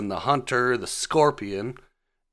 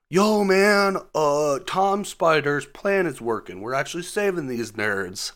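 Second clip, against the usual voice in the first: mock excited Ned, higher at the start; excited buddy voice; 6 semitones higher than usual. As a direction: play the giddy sidekick bragging.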